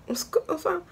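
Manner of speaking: put-on high shy whispered kid. The boy asking if she noticed him, high shy whisper.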